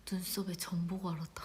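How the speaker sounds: whispered quote. Retold or imitated. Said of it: "그랬더니".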